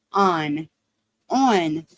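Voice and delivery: ON said alone, southern Ohio accent; own accented pronunciation. Shown as a demonstration. Showing viewers how they say it, ON in southern Ohio accent. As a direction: demonstrate ON as a separate, accented word. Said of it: "that is my accent".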